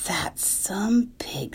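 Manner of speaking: hushed and awed; slow admiring whisper. Acted. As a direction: breathe it slowly in wonder. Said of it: "said Missus Arable".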